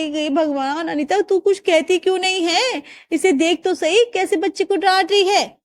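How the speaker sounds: tut-tutting nosy aunty; gossiping neighbour. Acted. Neighbour gossips to Anita about her harsh daughter-in-law, mild.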